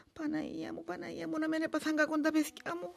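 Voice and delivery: fearful prayer. Acted. Mother praying for her children.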